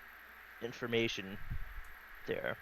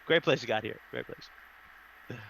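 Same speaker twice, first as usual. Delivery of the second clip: sarcastic; slower than usual. Acted. Player repeats the compliment while led away, sarcastic. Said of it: "Do I detect a bit of sarcasm".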